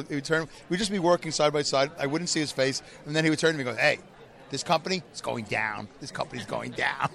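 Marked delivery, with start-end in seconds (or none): 3.8-7.1 a light impression of an old Jewish coworker, slightly lower; lightly voiced grumbling old man at the next machine; hint of an old Jewish man muttering doom. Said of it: "like this, old Jewish man".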